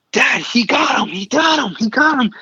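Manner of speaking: high-pitched excited calls of he got him; excited yelling. Retold or imitated. Younger son yelling from the mountaintop, high excited calls. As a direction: shout it up high like a thrilled kid. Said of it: "he starts yelling to me".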